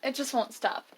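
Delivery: talking through hiccups; hiccuping. Real, not acted. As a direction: hiccups breaking the words. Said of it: "I can't stop hiccuping".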